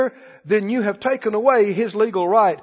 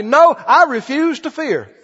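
preacher's higher-pitched, emphatic confession of faith; bold declaration; 3 semitones higher, 5 dB louder than usual. Acted. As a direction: speak out loud in firm defiance. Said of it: "speak out loud and say".

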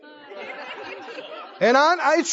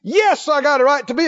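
mild defiant Jonah; 4 semitones higher than usual. Acted. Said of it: "He said".

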